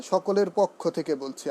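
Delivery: পক্ষ with an open first vowel, "pawkkho"; common mispronunciation. Retold or imitated. Teacher imitating how many speakers say it, open-vowel "pawkkho". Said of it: "আমরা অনেকে বলি".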